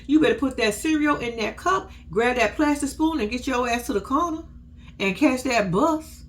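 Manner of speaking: a hammed-up mom barking morning orders; bossy mom. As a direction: rush the kids out the door. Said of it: "She's like".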